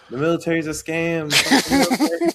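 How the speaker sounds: high, loud rising rant, building to a yell; defiant shout. Retold or imitated. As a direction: blow up at the whole military. Storming out telling off kids.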